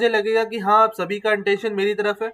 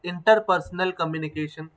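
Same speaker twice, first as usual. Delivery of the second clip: 1 slow key term; much slower than usual. Acted. Teacher spelling out a key term.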